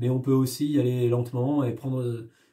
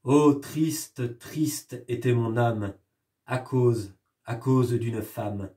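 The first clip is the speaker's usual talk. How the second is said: poem recital. Shown as a demonstration. Teacher reciting a sad poem to the class, gently sorrowful. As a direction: read it as a lament, unhurried.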